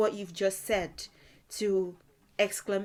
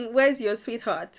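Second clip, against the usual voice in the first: playful tease; 2 semitones higher, 6 dB louder than usual. Acted. Teasing an old woman.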